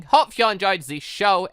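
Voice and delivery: normal talking voice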